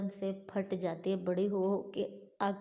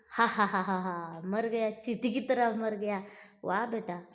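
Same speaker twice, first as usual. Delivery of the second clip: mocking laugh. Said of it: "अट्टहास करता है".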